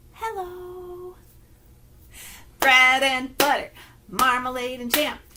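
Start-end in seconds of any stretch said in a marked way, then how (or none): 0.1-1.1 very quiet, tiptoe-gentle, drawn-out hushed voice. Leading a rhyme game, saying hello as quiet as possible. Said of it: "Let's say hello as quiet as we can".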